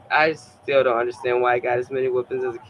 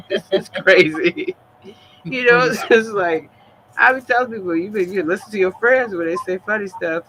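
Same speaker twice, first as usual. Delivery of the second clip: excited; 7 semitones higher, 6 dB louder than usual. Real, not acted. Laughing, excited rant.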